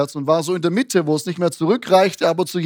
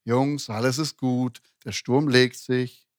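calm reassurance; 5 semitones lower, slower than usual. Retold or imitated. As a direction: gently settle frightened friends, slowly.

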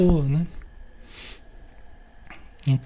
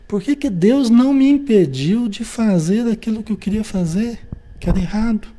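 raised, plaintive complaint to God; mock lament; 5 semitones higher than usual. Someone blaming God for their own error, plaintive. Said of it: "A projeção".

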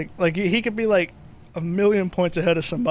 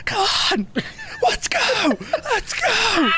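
esports hype shout. Retold or imitated. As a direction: scream it like a teen gamer hyped up. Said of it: "the esports fucking freak out kid".

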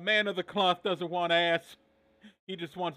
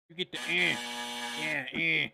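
Stone Cold style eh; Austin eh. Retold or imitated. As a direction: imitate Austin's eh grunt. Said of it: "You made that sound like Austin".

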